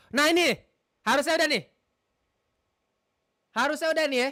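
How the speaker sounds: high and loud; pleased it finally works; excited relief. Real, not acted. Streamer telling viewers the setup should work now, high and loud.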